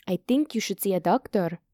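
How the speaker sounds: firm, understated advice. Acted. Hita advising a sick Alex, firm. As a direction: advise her firmly without raising the voice. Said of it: "Hita said firmly".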